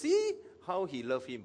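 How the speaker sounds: mildly skeptical remark. Acted. Sceptical onlookers remarking about Jesus, mildly skeptical. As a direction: say it with a touch of doubt. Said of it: "okay, uh, skeptical".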